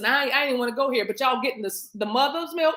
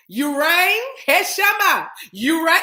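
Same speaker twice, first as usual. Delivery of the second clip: Lurch voice; 4 semitones higher, 5 dB louder, slower than usual. Retold or imitated. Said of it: "Addams Family? Lurch".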